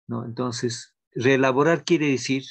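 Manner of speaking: ordinary delivery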